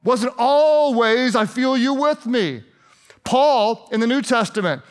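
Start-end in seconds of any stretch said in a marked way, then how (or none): 0.0-2.6 higher, urgent acted plea to God; David crying out. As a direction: demand answers from God, pleading. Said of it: "he cried out to God".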